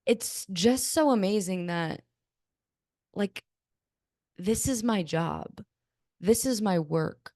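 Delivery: slow, moved and halting; slowly, with heartfelt wonder; emotional. Real, not acted. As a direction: pause between phrases as the feeling wells up. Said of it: "making me emotional".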